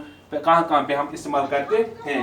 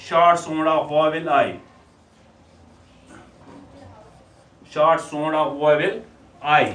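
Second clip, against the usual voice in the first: slow teacher dictation; much slower than usual. Shown as a demonstration. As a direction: spell it out very slowly for children. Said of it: "short sound of vowel I देखेंगे".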